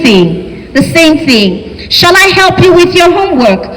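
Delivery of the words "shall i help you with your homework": "Shall I" said a little higher, as the British form. Shown as a demonstration. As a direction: offer "Shall I help you" politely, set against "Should". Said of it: "British shall form".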